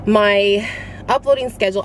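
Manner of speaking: slightly winded, short of air; talking while out of breath. Real, not acted. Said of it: "I'm out of breath".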